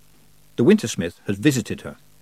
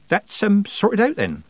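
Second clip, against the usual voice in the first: overly loud; 10 semitones higher, slower than usual. Acted. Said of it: "more loudly than necessary".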